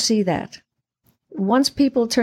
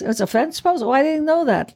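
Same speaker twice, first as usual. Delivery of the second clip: flirty Lydia; 6 semitones higher than usual. Retold or imitated.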